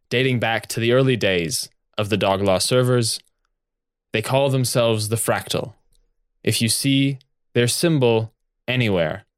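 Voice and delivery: booming official announcement; magically amplified voice. Acted. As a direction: intone it like a giant on-screen captain. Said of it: "his booming voice intones".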